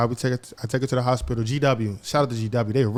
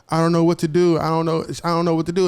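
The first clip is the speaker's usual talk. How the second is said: higher, distressed retelling of a crying mother; mildly acted tearful panic, pitched up; imitating cracking cry; 4 semitones higher than usual. Mother answers the phone in distress, imitated tearful cracking voice. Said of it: "her voice is cracking".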